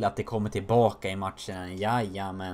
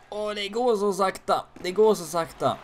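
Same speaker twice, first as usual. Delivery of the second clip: exasperated groan-yell; 10 semitones higher, 5 dB louder than usual. Real, not acted. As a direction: whine it out loud, fed up. Player stuck skating slowly, frustrated.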